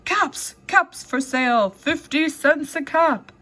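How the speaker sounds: sing-song peddler calling out wares; street vendor call. Acted.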